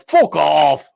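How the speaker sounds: half-successful imitation of a fed-up shout; imitated shout. Guy who crashed to the heckler, imitated shout. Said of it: "I didn't do it as well as that guy did".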